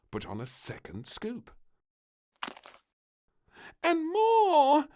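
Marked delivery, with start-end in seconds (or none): 3.8-4.9 high, loud eager request; a greedy little girl asking for more; piping plea; little princess. A narrator's reading. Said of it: "said the little princess".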